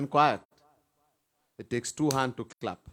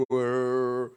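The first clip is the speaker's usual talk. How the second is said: angry dog growl. Retold or imitated. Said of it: "look at you angrily".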